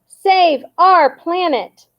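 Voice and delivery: high, slow crowd shout; shouted back. A narrator's reading. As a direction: chant it back at the leader. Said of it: "the campaigners shouted back".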